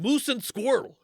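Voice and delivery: high, loud cartoon Russian; mock Russian accent. Shown as a demonstration. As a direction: ham up a Russian villain accent. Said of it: "can you do a Russian accent".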